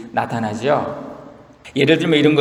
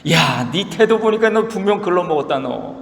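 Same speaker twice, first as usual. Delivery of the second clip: mock angry friends; 3 semitones higher than usual. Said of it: "친구들은 더 열받아가지고".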